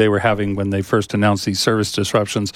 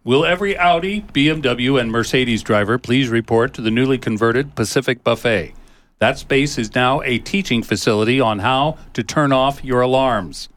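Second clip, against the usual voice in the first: announcer voice. Acted. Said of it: "let me put on my announcer voice".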